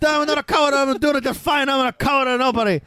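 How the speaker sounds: a hint of a nervous young jobber; imitating Frank Williams. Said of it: "the quotes from Frank Williams".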